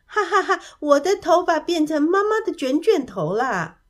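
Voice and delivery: high, loud "ha ha ha" into delighted speech; acted laughing. A narrator's reading. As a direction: burst out in pretend laughter, then exclaim. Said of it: "大笑起来". (装作大笑着高声说)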